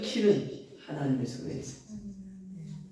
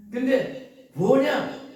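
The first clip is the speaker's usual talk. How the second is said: drawn-out, raised and louder; slow rhetorical question; 7 semitones higher, 5 dB louder, much slower than usual. Real, not acted. Preacher asking the congregation, slow and loud. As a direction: stretch it to build suspense.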